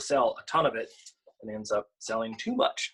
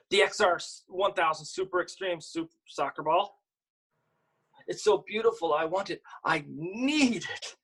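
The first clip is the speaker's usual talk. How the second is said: put-on yearn for the ball like a child; longing little girl; 6 semitones higher than usual. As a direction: kid gazing at a toy she wants. Reads the girl character's longing lines.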